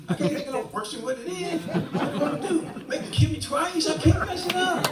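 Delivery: real laughter building; laughing. Real, not acted. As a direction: chuckle through the dark joke. Laughing at his own death sentence.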